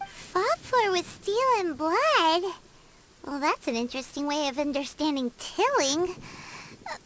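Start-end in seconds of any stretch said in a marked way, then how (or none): 0.1-2.5 slow questioning repeat, rising at the end; doubtful echo. Acted. Companion questions the guide's grim explanation, doubtful echo. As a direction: echo it in disbelief.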